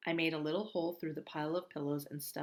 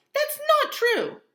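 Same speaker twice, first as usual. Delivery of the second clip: very high, loud, slow protest; yelled; 14 dB louder, slower than usual. Acted. Mom yells at Augie, denying it. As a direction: shout it back desperately. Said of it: "Mom yelled".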